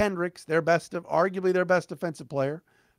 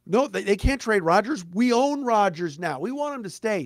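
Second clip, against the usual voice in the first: higher, whiny mock fan pleading; mocking Packers fan; 6 semitones higher than usual. Radio host mocks Packers fans, in a whiny mock plead. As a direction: parody a clingy fan begging to keep his QB. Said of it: "Don't give me this crap about".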